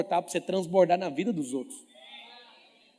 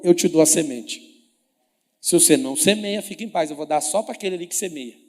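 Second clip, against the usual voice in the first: loud preaching; 9 dB louder than usual. Acted. Voicing God's promise, preaching loud.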